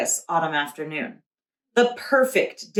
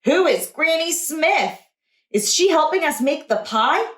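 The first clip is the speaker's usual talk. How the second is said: put-on child voice; 6 semitones higher than usual. A narrator's reading. Puzzled child asks.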